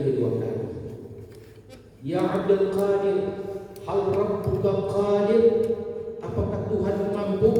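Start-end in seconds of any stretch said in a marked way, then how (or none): 2.0-7.5 put-on insistent drunk man. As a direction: press the question harder. Drunk man asks second time.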